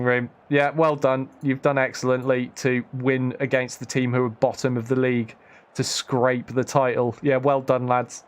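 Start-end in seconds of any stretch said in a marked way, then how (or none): 0.5-4.1 sarcastic. Real, not acted. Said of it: "did that sound sarcastic?". 4.3-8.2 sarcastic. Real, not acted. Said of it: "did that sound sarcastic?".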